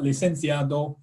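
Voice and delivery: licenciado said in an English-accented Spanish; awful Spanish accent. Shown as a demonstration. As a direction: licenciado with anglicised Spanish vowels. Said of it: "forgive my absolutely awful Spanish accent".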